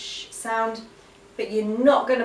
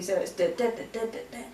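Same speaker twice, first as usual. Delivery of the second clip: panting like a dog; 5 dB quieter, faster than usual. Shown as a demonstration. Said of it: "we're gonna pant like a dog".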